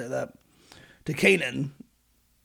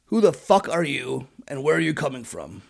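harsh. Retold or imitated. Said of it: "quite harshly to them".

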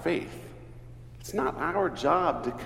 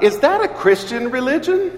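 blurted out; 7 semitones higher, 6 dB louder than usual. Retold or imitated. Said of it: "finally just blurted out".

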